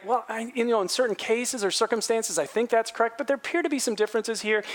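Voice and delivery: disagree gently, leaving room; humble, careful suggestion; humble disagreement. Retold or imitated. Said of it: "Do you hear the humility?".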